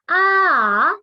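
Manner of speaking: A drawn out, dipping then climbing; third tone, falling-rising. Shown as a demonstration. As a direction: let A drop, then bring it up. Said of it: "itu nadanya turun, terus naik". (A nada turun lalu naik)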